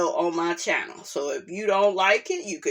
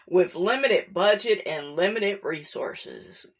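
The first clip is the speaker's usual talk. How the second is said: reading a document aloud. Acted. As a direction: read it like a company statement. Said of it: "back to my reporter voice".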